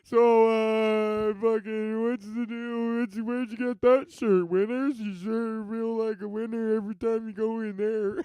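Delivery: a hint of a cheesy comedian opener; forced comic bit. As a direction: bravely launch into jokes after a sad speech. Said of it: "you gotta go up there and be like".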